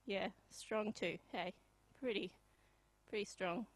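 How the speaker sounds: a hint of a laconic fifties bloke, slowed right down; 1950s Aussie bloke. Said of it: "This is my impression of nineteen fifties values in Australia".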